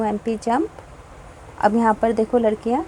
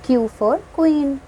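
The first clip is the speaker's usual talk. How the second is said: slow letter drill; 3 semitones higher, much slower than usual. Shown as a demonstration. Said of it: "जैसे कि यहाँ पर है".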